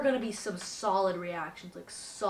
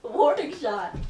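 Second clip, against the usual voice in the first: laughing; slower than usual. Real, not acted. Laughs at friend's joke.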